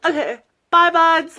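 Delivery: high, bright sign-off; cheery goodbye. Real, not acted. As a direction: wave them off, upbeat and loud.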